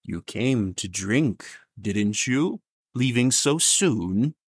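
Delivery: a slow, dry, lightly voiced old stranger. Mysterious old man to the departing guest, slow and dry. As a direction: let each word crawl out, dry and slow. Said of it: "dry voice say".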